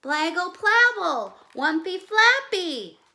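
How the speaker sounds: put-on high, loud toddler gibberish; baby babble. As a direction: babble hard, trying to explain. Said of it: "Look at her hands".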